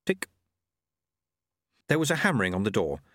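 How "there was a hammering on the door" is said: plain reading voice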